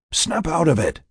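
high voice heard inside the head; a lightly voiced mind voice calling; whispery telepathic voice. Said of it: "the familiar voice in his head".

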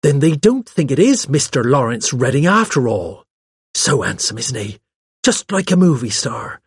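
lightly voiced gushing secretary; gossipy secretary, admiring. Secretary gossiping about the handsome suspect, lightly gushing. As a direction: chatter as an admiring young secretary. Miss Cram's dialogue in narrated story.

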